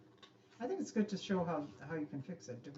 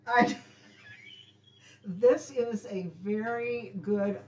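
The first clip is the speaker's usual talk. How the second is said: mock solemn; 4 semitones higher, 11 dB louder, slower than usual. A mock-solemn Mother's Day tribute.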